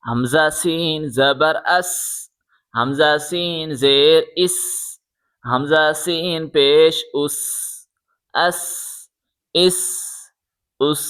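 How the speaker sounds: اس ended with a sharp hissing whistle; whistling s. Shown as a demonstration. Teacher telling students to make the whistling sound of س. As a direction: let the s of اس whistle through the teeth. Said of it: "سیٹی کی آواز نکالیں".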